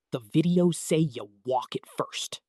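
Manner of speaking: whispered serious dad; Dad impression, whispered. Kid imitating dad whispering trail wisdom by the water. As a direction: hush it like dad giving solemn advice. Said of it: "Dad impression".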